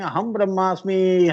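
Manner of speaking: half-hearted exultant call; mock cry of realisation. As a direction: proclaim it with a long last syllable, short of a shout. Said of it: "గట్టిగా అరుస్తావు".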